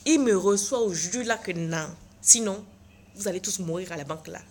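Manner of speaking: threatening the teller in a mock rage; angry threat. Threatening bank staff. (menace furieuse jouée)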